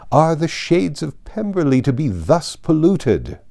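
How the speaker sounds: a hint of a scornful aristocrat building outrage; Lady Catherine. Lady Catherine denouncing Elizabeth's family, mildly scornful.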